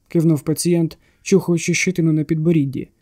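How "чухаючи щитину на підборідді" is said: plain reading voice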